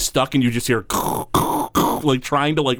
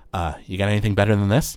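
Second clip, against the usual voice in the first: scoffing halfling; 3 semitones lower, faster than usual. Acted. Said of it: "and he goes".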